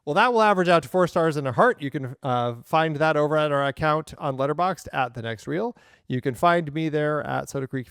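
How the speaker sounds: nail it on the second try; clean retake. Shown as a demonstration.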